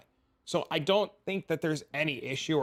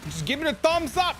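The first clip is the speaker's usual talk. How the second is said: mock cheerful; 11 semitones higher, 4 dB louder than usual. Real, not acted. Sarcastic advice.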